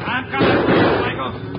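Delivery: loud, drawn-out call while chasing; slow, loud chase cry. Acted. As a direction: shout it across the herd at the fleeing outlaw. Riding hard after the outlaw.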